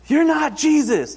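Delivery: put-on high, loud child's yell; imitating a child yelling. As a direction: shout it up high like an indignant little girl. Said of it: "I hear Taryn yell".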